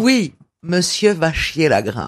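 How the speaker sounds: slow, low snob accent; posh French drawl. Shown as a demonstration. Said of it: "Si tu le dis avec l'accent snob".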